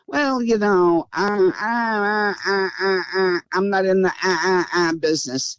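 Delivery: imitated hemming and hawing. Mimicking people who shrug off voting, mock hesitant. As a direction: imitate someone stalling through a string of uhs. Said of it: "kinda take it like".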